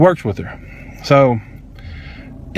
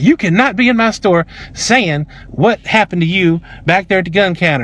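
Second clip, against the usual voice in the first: slow, higher, word-by-word scolding; defensive manager; 3 semitones higher than usual. Retold or imitated. Manager confronting customer in her store, defensive imitation. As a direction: spell it out slowly, lightly defensive. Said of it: "she's very defensive automatically".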